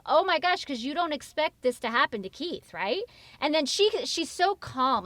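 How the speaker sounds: normal talking voice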